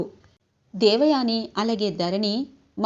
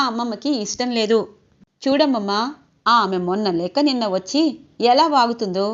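a touch of raised, scolding voice, lightly acted; mild mock angry outburst. Saroja lashing out at Vasudhara before grandma, mildly raised. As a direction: snap back half-heartedly, voice a little up. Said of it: "అమ్మమ్మతో గట్టిగా మాట్లాడొద్దు".

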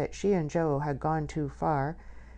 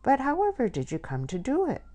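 wailing; 10 semitones higher than usual. A narrator's reading. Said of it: "Lily wailed".

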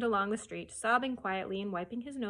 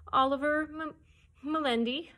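put-on small child voice; 6 semitones higher, 4 dB louder than usual. Lost child gives his name.

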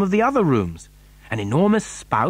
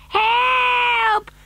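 very high, drawn-out wail; shouted cry for help. A narrator's reading. Mother flung over in the lift, shouting for help. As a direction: wail it out at the top of the voice. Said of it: "shouted Missus T V".

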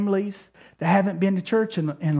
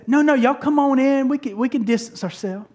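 put-on welcoming old lady; 4 semitones higher than usual. Elderly lady inviting the pastors inside, lightly voiced. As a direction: wave them in warmly. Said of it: "she said".

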